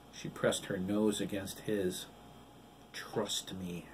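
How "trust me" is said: soft breathy whisper. A narrator's reading. Wife whispers to her husband, softly. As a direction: keep it between the two of you.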